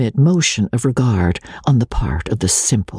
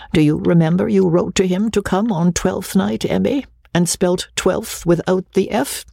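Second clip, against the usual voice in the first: high, playful father's voice; teasing old gentleman; 8 semitones higher than usual. A narrator's reading. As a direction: rib a daughter, pitched well up. Father teasing Amelia in story.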